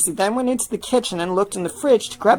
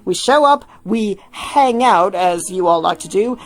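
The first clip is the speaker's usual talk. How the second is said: lightly voiced bossy Tim, louder; 3 semitones higher, 4 dB louder than usual. Tim briefing David on the call, lightly voiced. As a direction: manager laying out the plan.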